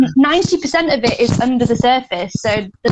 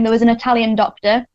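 Italian accent; 2 semitones lower than usual. Shown as a demonstration. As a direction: roll the name out in an Italian accent. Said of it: "that's my Italian accent".

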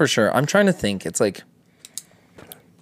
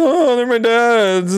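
put-on high, slow, small kid voice; meek little kid; 12 semitones higher, 3 dB louder, much slower than usual. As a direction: squeak it out like a shy child. Mocked kid answering bullies.

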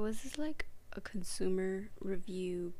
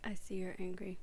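unvoiced mock whisper; 12 dB quieter than usual. Teasing her angry cohost in a whisper. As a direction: hush it like a secret.

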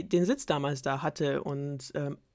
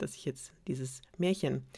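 whisper; 3 semitones lower, 6 dB quieter than usual. Real, not acted. Whispered aside.

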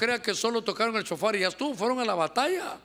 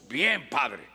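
much lower mock reply; congregant's reply; 8 semitones lower than usual. Congregant answers "how are we doing", low dutiful reply. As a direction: drop the pitch for the answer.

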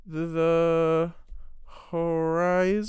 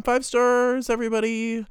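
hyping it up; 4 semitones higher, 4 dB louder than usual. Acted. Hyping the score to everyone.

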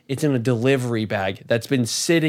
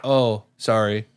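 slow, lower, half-hearted mock apology; unapologetic; 5 semitones lower, slower than usual. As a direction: imitate a worker who isn't sorry at all. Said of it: "literally not, like, apologetic".

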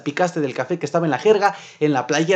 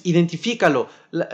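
ordinary talk

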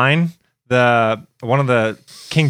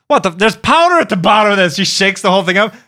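put-on high whiny girlfriend voice, louder; imitating girlfriend; 8 semitones higher, 3 dB louder than usual. Girlfriend complains about her drink, high and whiny. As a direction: pitch it up like a grossed-out girlfriend.

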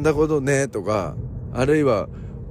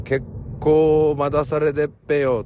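Ibaraki dialect; 3 semitones higher than usual. Retold or imitated. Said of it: "ペヨってはなりませんけれども".

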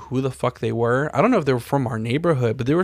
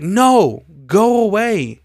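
louder, higher no, go away; retold brush-off; 8 semitones higher, 6 dB louder, much slower than usual. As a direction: shoo him off firmly. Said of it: "I was like".

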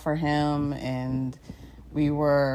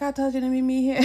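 mock annoyed; 8 semitones higher, faster than usual. Boyfriend annoyed on phone.

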